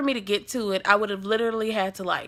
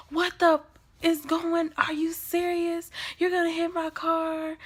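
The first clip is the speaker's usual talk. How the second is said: imitated outrage; 8 semitones higher than usual. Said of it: "he was really, really pissed off".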